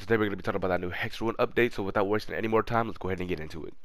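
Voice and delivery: fast intro. Real, not acted. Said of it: "I promise I'll actually talk at a normal speed".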